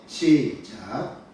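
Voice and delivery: slow, stretched start signal; drawn-out cue. Real, not acted. Pastor cues the congregation to read, drawn out. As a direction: stretch out the word to bring everyone in.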